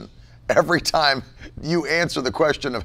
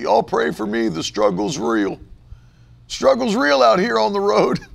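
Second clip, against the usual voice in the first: mock social media plea; 5 semitones higher than usual. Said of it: "You'll never see me writing on social media".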